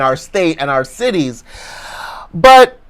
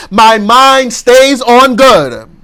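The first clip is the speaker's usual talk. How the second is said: slow, loud, drawn-out declaration; loud affirmation; 5 semitones higher, 4 dB louder, much slower than usual. Shown as a demonstration. Preacher leading the congregation in a loud, slow affirmation. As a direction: proclaim it with fist raised. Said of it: "affirm with me".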